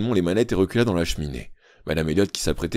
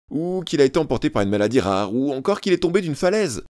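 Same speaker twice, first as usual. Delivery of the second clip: moaning mother; 8 semitones higher, 4 dB louder than usual. A narrator's reading. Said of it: "gémit madame Elliot".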